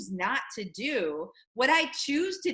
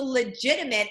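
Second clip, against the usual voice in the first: "legitimate" given firm emphasis; "legitimate" picked out with deliberate stress. Real, not acted. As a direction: lean on the word "legitimate". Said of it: "I stress the word legitimate".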